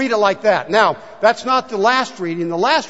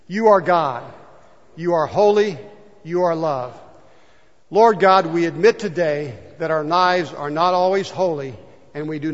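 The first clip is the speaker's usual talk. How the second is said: prayer read aloud. Acted. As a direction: lead the church in a humble prayer. Congregational prayer.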